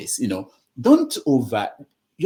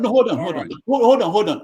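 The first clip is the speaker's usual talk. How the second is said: loud interruption; 8 semitones higher, 7 dB louder, faster than usual. Real, not acted. Host silencing an interrupter.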